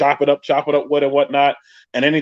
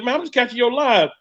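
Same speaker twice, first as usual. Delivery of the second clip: imitating cousin; 10 semitones higher than usual. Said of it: "he sent me a text message".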